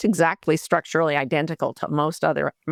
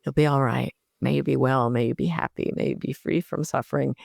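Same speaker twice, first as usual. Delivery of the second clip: kind self-talk; 3 semitones lower than usual. Retold or imitated. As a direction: soothe yourself through a panic attack. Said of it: "saying kind things to myself in my mind".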